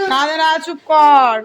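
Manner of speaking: calm her down gently and slowly; slow soothing shush. Real, not acted. Hushing a crying little girl.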